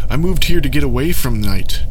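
frantic woman yelling at the crowd; hysterical shout. Acted. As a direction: cry it out in panic. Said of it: "a woman shouted hysterically".

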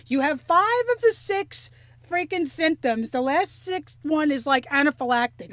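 imitating a friend's alarmed call, lightly; retold yelling. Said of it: "you called me yelling".

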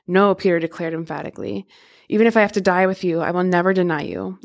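steady, measured Bible reading; scripture reading. Acted. Podcast host reads the Gospel passages to listeners, measured scripture reading. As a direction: read the verses clearly to listeners.

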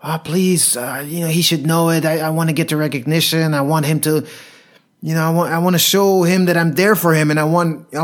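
mock the needy younger self; whiny old self. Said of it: "The old me would be".

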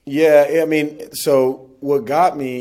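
suddenly high and loud; emphatic. Real, not acted. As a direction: burst in with feeling. Emotional start of answer.

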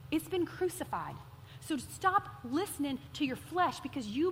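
lightly voiced gentle Spirit; calm reassurance. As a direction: reassure her it is over. Holy Spirit's answer retold.

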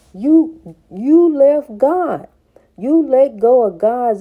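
loud, slow callout; calling out. Acted. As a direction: point at them and call it out. Calling out listener.

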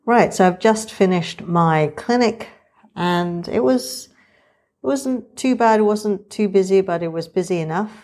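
muffled behind a surgical mask; through a face mask. Real, not acted. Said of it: "You're listening to me talk now with the mask on".

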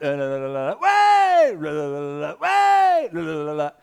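mock flat translator with sudden yelps. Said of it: "they were like".

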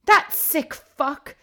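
loud, slow, high outraged curse; furious hiss. A narrator's reading. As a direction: spit it out in disgust. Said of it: "she hissed".

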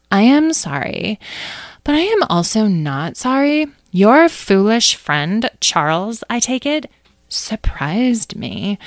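slow, deliberate non-apology; haughty apology. Acted. Amethyst half-apologises to the mouse, haughty. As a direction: measure it out, unrepentant.

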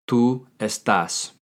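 slow, clear Tú estás; teacher modelling the answer slowly; slow model answer. Shown as a demonstration. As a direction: lay out each syllable for the learner. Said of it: "How do you say "you are" in Spanish".

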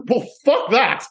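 Sigourney Weaver quote. Retold or imitated. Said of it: "she clearly says".

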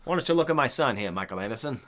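quick mock Maine accent, dropping at the end. Parent confronting the constable about the son, mock Maine accent. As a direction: rattle it off in a put-on Maine accent. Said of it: "the Maine accent is hilarious".

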